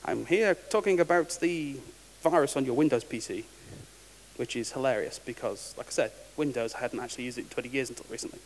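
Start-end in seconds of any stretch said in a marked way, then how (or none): 0.1-3.4 scam caller in a badly done Indian accent. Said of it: "In a really, really bad Indian accent".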